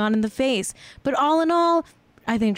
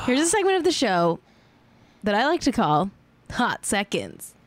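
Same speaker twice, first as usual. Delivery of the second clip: second take of the segment intro; restarting the line. Shown as a demonstration. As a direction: redo the announcement cleanly. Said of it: "Okay, take two".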